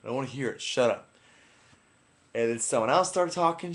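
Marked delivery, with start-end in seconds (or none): 0.0-1.1 retold irritated order with louder bursts; fed up. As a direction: put a foot down, exasperated. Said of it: "I just was so fed up".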